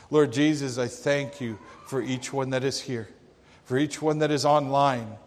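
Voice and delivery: earnest, measured prayer voice; closing prayer. Acted. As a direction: pray sincerely over the congregation.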